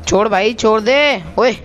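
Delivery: urgent calls mid-fight, each word pushed; excited live shouting. Real, not acted. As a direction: egg the enemy on, tense and quick. Live firefight, urging enemy out. (लड़ाई के बीच उत्साहित होकर चिल्लाना)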